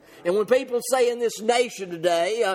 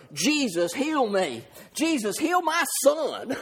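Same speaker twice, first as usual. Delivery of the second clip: imitated plea, building to a high drawn-out second cry; 4 semitones higher, slower than usual. Preacher models a parent's prayer to Jesus, crying out. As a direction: plead for the son, pitch climbing, slowing. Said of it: "we need to cry out aloud".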